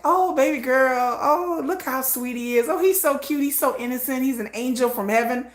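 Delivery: lightly mocking fangirl coo; gushing fan commenter. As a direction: coo over an idol in mild parody. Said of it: "I couldn't be in a comment section".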